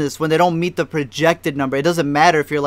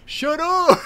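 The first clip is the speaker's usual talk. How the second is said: mock yell; 12 semitones higher than usual. Imitating the cowboy guy yelling out, mock yell. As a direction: imitate a yell from afar, pitched high. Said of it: "he just yells out".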